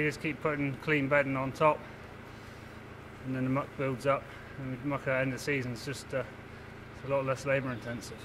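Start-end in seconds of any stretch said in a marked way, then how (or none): 3.2-8.2 breathless, winded speech; out of breath. Real, not acted. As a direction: talk while short of breath after shovelling. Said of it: "I'm out of breath".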